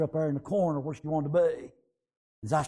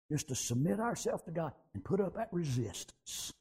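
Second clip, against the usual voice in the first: softer repeat; 8 dB quieter than usual. Acted. Repeats line much softer.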